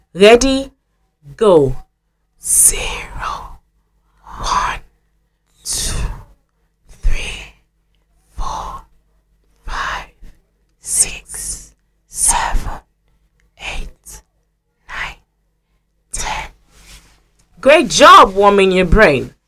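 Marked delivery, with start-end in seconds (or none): 2.4-16.5 hushed whisper, much quieter and slower. Leading a group through a counting warm-up, counting together; quiet whisper. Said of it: "in a quiet whisper voice".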